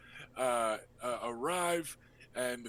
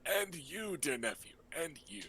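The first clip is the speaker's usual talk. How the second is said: lightly raised, breezy uncle voice; flamboyant uncle; 4 semitones higher, faster than usual. Acted. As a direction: play the charming rogue host.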